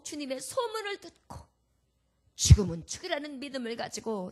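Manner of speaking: from fearful whisper rising to loud, high joyful thanks; building to joyful thanks. Acted. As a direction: swell from trembling to triumphant. Woman's confession swelling to joy.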